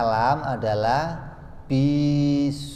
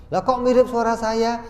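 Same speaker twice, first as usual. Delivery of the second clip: high-pitched mock surprise; mock puzzlement; 10 semitones higher, 4 dB louder than usual. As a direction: act baffled, pitched well up. Acted puzzled listener hearing radio. (pura-pura heran bernada tinggi)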